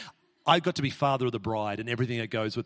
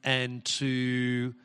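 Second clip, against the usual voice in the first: prayer. Acted. Prays over Jeremy.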